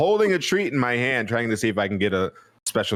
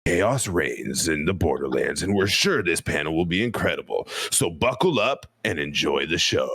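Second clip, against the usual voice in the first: movie voice; 5 semitones lower than usual. Shown as a demonstration. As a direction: read it like the old AOL Movie Phone trailer voice. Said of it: "use my movie voice".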